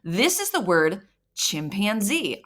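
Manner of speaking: slow, clear model of the word chimpanzee; calm parent giving the answer; slow teacher telling. Shown as a demonstration. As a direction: tell the child the word patiently. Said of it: "You're gonna tell them".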